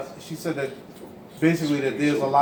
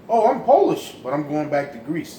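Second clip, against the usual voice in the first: mock TV commercial voice; 3 dB louder than usual. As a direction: overplay a cheesy commercial line. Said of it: "they used to run a commercial".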